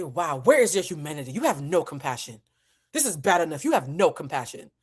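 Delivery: lightly voiced indignant grand lady; upset, with theatrical dignity; Aunt Viv. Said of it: "I sound like Aunt Viv".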